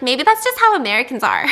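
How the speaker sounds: quoting him through a laugh; amused, laughing it out; laughing fiance quote. Retold or imitated. Telling viewers what her fiance said, laughing. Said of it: "And he's like".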